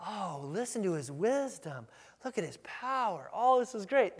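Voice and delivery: acted approving awe; admiring crowd. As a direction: gush as an impressed listener. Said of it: "they weren't like".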